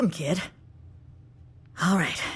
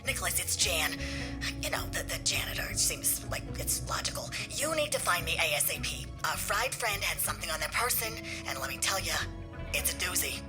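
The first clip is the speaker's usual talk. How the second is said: hushed, softer message on playback; furtive voicemail for a colleague; 6 dB quieter than usual. Acted. Voicemail message played back to the others.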